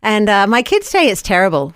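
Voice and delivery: put-on Irish lilt; fake Irish accent. Host testing her Irish accent on an Irish guest, fake Irish accent. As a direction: playfully attempt an Irish accent. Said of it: "my fake version of the Irish accent".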